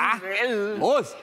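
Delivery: blunt Bavarian "Ha? Was?"; short, gruff Bavarian reply; Bavarian dialect. Shown as a demonstration. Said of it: "sagt man im Bayerischen".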